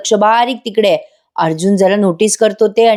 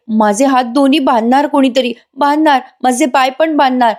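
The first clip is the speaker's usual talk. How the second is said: higher, fearful rambling; feigned madness; 5 semitones higher than usual. Acted. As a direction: act the frightened madwoman. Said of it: "नाटक करायला लागते लगेच वेडेपणाचं". (वेडेपणाचं नाटक करत बोलणे)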